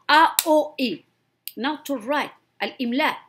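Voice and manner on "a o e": A O E as separate vowels, ah, oo, ee; hamza vowels. Shown as a demonstration. Teacher showing pronunciation is easy, A O E sounded out separately. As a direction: sound out A O E one by one, louder. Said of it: "To pronounce is easy to pronounce".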